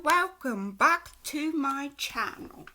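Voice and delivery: drawn-out, sing-song Scorpio; put-on Scorpio accent. Shown as a demonstration. Tarot reader greeting viewers with her Scorpio accent. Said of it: "have to do the accent".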